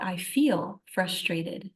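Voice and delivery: slow, drawn-out "feel" before "frustrated"; stress on FEEL. Retold or imitated. Admitting emotion while refusing offense, "feel" stressed slowly. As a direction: stretch "feel" to set it apart. Contrasts feeling with being.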